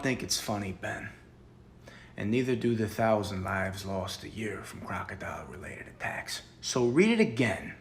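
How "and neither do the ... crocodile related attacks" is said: softer, breathy mock-grave whisper; ominous whisper. Interrogator whispering the death toll at Ben to guilt him. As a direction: drop to a grave hush.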